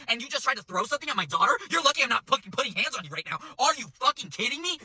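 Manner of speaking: high-pitched indignant tirade; outraged mom. Retold or imitated. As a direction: imitate a mother berating the server. Mom's tirade, retold.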